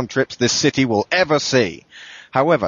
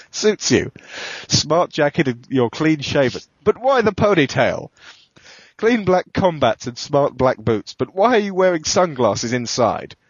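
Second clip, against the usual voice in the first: higher, slow voice for the client; 5 semitones higher, slower than usual. Acted. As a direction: play the prospective client, higher and slower.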